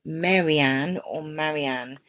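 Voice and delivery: Marianne first as MEH-ree-ann then as MA-ree-ann; two ways to say Marianne. Shown as a demonstration. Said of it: "how do you pronounce it?".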